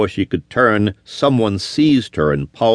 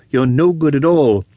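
higher, cutting contempt; cold contempt; 5 semitones higher than usual. A narrator's reading. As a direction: spit the words at him coldly. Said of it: "she replied like flint".

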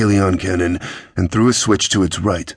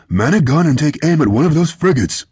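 lively, higher-pitched captain's order; commanding; 8 semitones higher, 3 dB louder than usual. A narrator's reading. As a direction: give a firm battle order. Captain ordering crew in battle.

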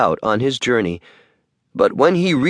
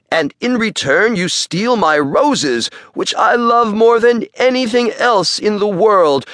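angry beast; 8 semitones higher than usual. Acted. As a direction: threaten him like a furious beast. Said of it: "roared the beast".

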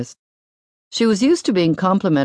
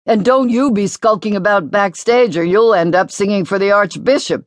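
shot back; 6 semitones higher, 3 dB louder than usual. A narrator's reading. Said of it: "the older boy shot back".

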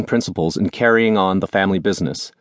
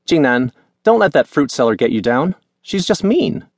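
put-on comforting girlfriend; 6 semitones higher than usual. A narrator's reading. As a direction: reassure him gently. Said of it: "said Nancy".

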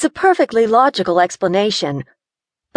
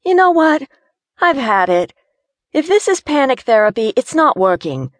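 higher, loud, fed-up fear; rising panic; 6 semitones higher, 3 dB louder than usual. Acted. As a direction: insist on leaving right now. Gina panicking, wanting out.

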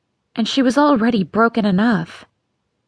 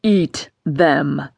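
bellow; 6 semitones lower than usual. Acted. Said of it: "he bellowed".

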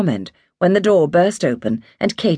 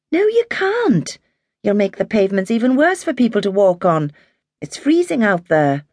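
firm mother; 6 semitones higher than usual. A narrator's reading. Mary refuses Tommy.

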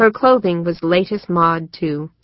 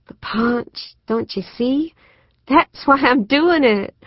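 higher and rising, urging her sister; pleading intently; 5 semitones higher than usual. Acted. Susan begging her sister to understand, rising urgency. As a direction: push harder with each line to make her see.

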